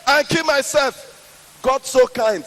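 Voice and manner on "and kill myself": high, loud indignant yell; man yelling again at passers-by who ignore him; repeated threat. Retold or imitated. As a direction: shout louder, now offended to be ignored. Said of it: "And I repeated".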